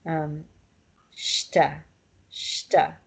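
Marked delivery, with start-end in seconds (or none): 1.1-3.0 shta, j turned into sh. Shown as a demonstration. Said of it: "is how it's pronounced".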